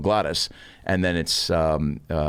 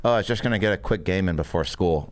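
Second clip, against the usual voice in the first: lightly imitated oblivious roommate; low-key, unbothered roommate voice; Blake; 3 semitones lower than usual. Roommate caught on the PlayStation, lightly imitated. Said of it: "He talked like this".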